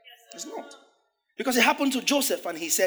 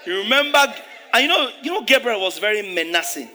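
shout; 2 semitones higher, 6 dB louder than usual. Real, not acted. Preacher shouting to the congregation about menacing Gabriel. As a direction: call it out big and loud.

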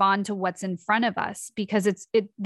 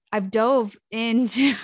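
unsure correction; 2 semitones higher, 4 dB louder, slower than usual. Real, not acted. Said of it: "is dived a word?".

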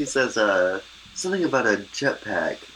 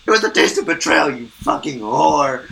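mock angry; 7 semitones higher, 4 dB louder than usual. Retold insult, louder, slower.

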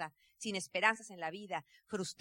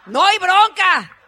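laughing; 7 semitones higher, 17 dB louder, much slower than usual. Real, not acted. Laughing at husband's easy answer.

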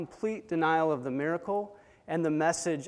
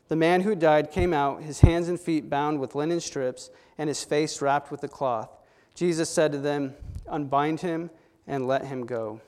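louder, measured Bible reading; preacher reading scripture aloud; 4 dB louder than usual. Acted. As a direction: finish reading the passage with weight.

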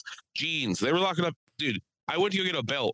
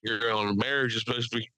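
Caitlyn Jenner; faster than usual. Retold or imitated. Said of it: "Caitlyn Jenner just being like".

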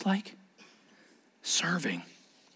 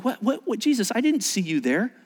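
mock confusion; 5 semitones higher than usual. Church imagined confused before Jesus.

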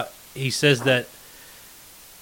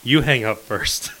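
reluctant goodbye; 3 semitones lower, 3 dB quieter, slower than usual. Retold or imitated. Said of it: "you didn't deny the".

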